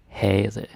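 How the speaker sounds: havde without any V, "hadde"; correct havde. Shown as a demonstration. Teacher giving learners the correct Danish havde, no V. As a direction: drop the V in havde entirely. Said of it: "The V is not pronounced".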